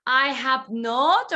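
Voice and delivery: I have NOT, slow with not rising; stress on not. Shown as a demonstration. Teacher shows students the negative form, stressing not. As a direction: draw out the NOT slowly. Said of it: "If we want to say that no".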